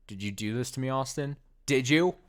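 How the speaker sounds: lightly voiced betrayed girl, near tears; hurt, accusing Monika. Monika confronting Austin for deleting her, hurt and accusing.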